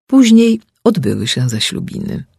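ordinary delivery, nothing marked

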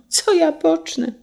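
high, helpless question; despairing cry. A narrator's reading. Carter at a loss over his wine, despairing cry. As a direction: lament with the pitch lifted right up. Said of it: "zawołał z rozpaczą".

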